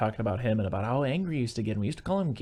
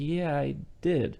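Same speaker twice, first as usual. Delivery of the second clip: slow, higher "Yeah, I did"; honest admission; 4 semitones higher, much slower than usual. Retold or imitated. Man admitting it to Lena, "Yeah, I did" slow and deliberate. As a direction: draw out "Yeah, I did" in a raised pitch. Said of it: "he's just gonna be like".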